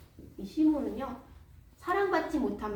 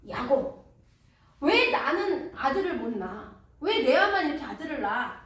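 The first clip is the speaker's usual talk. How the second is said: louder, complaining wife's outburst; angry demand; 3 semitones higher, 5 dB louder than usual. Acted. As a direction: whine and press her husband. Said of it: "막 화를 내기 시작합니다". (남편에게 떼쓰듯 화내는 아내의 목소리)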